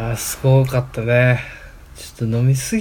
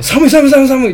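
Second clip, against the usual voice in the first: shivering; 9 semitones higher, 6 dB louder than usual. Retold or imitated. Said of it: "ってなって".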